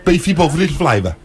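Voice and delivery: put-on Brummie; Brummie accent. Shown as a demonstration. Host carrying on the demo for the co-host, Brummie accent. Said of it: "I can do a Brummie accent".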